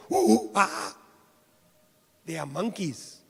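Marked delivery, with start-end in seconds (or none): 0.1-1.0 mock monkey noises. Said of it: "The monkeys will be going".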